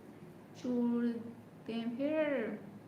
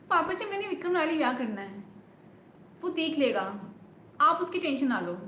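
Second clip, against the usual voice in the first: movie heroine pleading. Acted. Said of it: "वो विक्रम वाले dialogues बढ़िया था".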